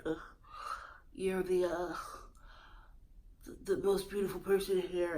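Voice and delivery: low, soft, halting creep voice; weird creepy talker. Retold or imitated. Host mocking the weird way he talks to Katie, low and halting. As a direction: imitate a would-be sexy creeper, hesitating. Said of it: "in that weird way that he talks".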